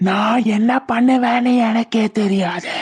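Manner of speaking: measured, drawn-out spectral warning; eerie acted threat; threatening ghost. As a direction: warn her with slow-burning menace. Ghost warns against the engagement.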